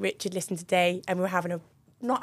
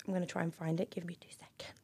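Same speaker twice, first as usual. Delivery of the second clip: soft whisper to herself; 4 semitones lower, 13 dB quieter than usual. Real, not acted. Searching for the voice note, whispering to herself. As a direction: murmur it aside while searching.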